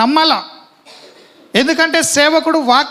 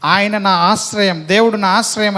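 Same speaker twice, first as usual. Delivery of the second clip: slow call for repeating; 4 semitones lower than usual. Shown as a demonstration. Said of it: "పక్కలకు చెప్పండి".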